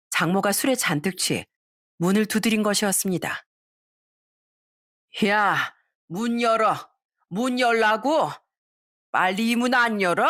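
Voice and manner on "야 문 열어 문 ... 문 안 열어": lightly voiced drunk mother-in-law yelling at the door; mild mock drunken demand to open up; a hint of a drunk mother pounding the door.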